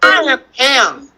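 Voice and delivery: put-on slow, deliberate words for young readers; read-along pace. Shown as a demonstration. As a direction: read slowly so children can join in. Leading children's read-along.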